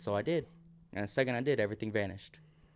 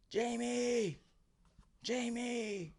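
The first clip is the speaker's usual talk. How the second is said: high calling out of a name; imitating a scream; 12 semitones higher, 3 dB quieter, much slower than usual. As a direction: call out in panic, searching. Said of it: "he's screaming".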